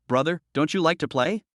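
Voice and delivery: lightly voiced toddler girl; a hint of a little girl's baby talk. A narrator's reading. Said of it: "said in a baby voice".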